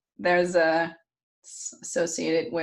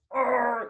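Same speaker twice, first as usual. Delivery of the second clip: mock growl of effort, pitched up; straining growl; 5 semitones higher than usual. Storyteller as tied-up Fenrir straining, mock growl. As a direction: imitate a wolf straining at ropes. Wolf straining against ropes.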